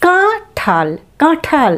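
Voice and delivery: কাঁঠাল, নাসিক্য কাঁ; nasal ka. Shown as a demonstration. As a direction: model কাঁঠাল for pupils. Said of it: "কাঁঠাল শব্দটি হলো".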